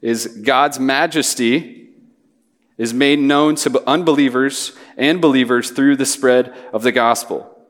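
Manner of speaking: slow, spaced-out big idea for note-taking; a deliberate, slowed pace stating the main point; slow dictation. Shown as a demonstration. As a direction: lay each phrase down slowly so they can write it. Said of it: "Feel free to write this down".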